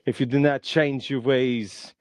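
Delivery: a light hint of a lecturing action hero, barely changed voice; half-hearted muscleman warning his friend about his health; Arnold Schwarzenegger. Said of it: "And he says".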